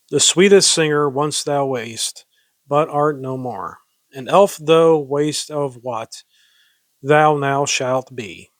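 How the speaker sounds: measured, solemn verse reading; deliberate, formal reading of an ode; poem recitation. Acted. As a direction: recite with weight on each phrase. Reads a tribute poem aloud.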